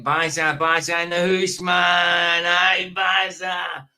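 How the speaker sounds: calling out. Real, not acted. Greeting viewer Baza loudly.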